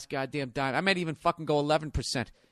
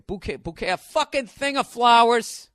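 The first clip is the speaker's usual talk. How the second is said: mock fancy then blunt; 7 semitones higher, 7 dB louder than usual. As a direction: sneer at the fancy word bouquet, then blurt the blunt version. Mocking the word bouquet.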